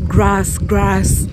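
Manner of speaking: "grass" with her African open vowel; "grass" in a Kenyan English accent; Kenyan pronunciation. Retold or imitated. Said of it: "your African accent is so heavy".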